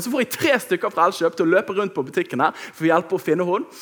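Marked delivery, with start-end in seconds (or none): none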